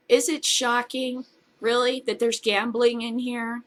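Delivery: sarcastic mock surprise. Shown as a demonstration. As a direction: ask it with heavy irony. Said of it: "What? Uh, nah".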